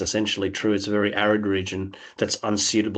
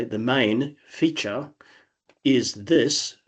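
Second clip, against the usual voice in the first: "The main feature is this" said the English way, crisp and clipped vowels; English way of saying it; 3 semitones higher, much slower than usual. Shown as a demonstration. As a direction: say it as an English person would. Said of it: "whereas in English might say".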